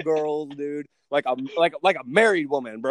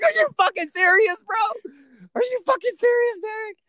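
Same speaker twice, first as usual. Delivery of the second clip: much higher, squeaky laughing voice; can barely get it out for laughing; laughing disbelief; 4 dB louder than usual. Retold or imitated. Mocking disbelief at Derek's French fries.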